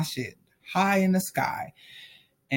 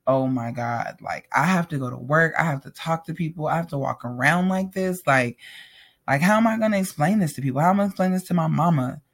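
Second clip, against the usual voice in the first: retold mortified worry, building in urgency. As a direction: replay mild panic that speeds up into fast questions. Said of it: "I was just mortified".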